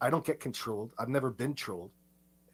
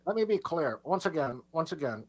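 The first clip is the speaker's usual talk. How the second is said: emphatic; 5 semitones higher, 4 dB louder than usual. Real, not acted. Repeats phrase louder, emphatic.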